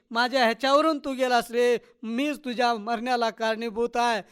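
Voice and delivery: high, loud lament easing into self-blame; grief-stricken wail. A narrator's reading. Mother to her burnt dead boy, wailing. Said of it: "रखमानं टाहो फोडला".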